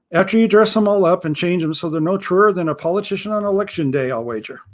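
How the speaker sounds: a hint of a wary old pirate, teasing; mild pirate voice, probing the visitor; lightly voiced suspicious pirate.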